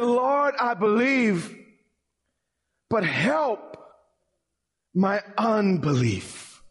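high, slowed cry of "help my unbelief"; tearful plea. Retold or imitated. The father begging Jesus, lightly imitated tearful cry. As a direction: plead upward, voice stretched on "unbelief". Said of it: "with tears running down his face".

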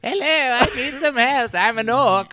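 high goofy put-on voice; mock orc player. Friend mocking the orc roleplay, goofy high voice. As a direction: play a dopey newbie orc.

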